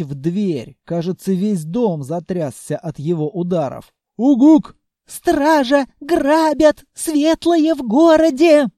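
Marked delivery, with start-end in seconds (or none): 4.2-4.8 sharp loud grunt; loud monster grunt. A narrator's reading. Monster Senya losing patience at the locked door, loud grunt. 5.1-8.7 high, loud panicked shopkeeper yelling for help; panicked shriek. A narrator's reading. Frightened shopkeeper behind the door screaming for the guards. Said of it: "Послышался визгливый голос".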